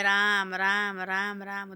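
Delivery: drawn-out, sing-song "Ram, Ram"; sweet-voiced parrot. Parrot greeting a passing king, lightly sweet-voiced. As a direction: intone it lightly, stretching each vowel. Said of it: "देखो इसकी कैसी मीठी वाणी है".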